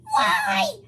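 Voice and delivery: high, loud desperate shout; Hog demanding. A narrator's reading. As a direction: yell the question in anguish. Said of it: "Hog asks".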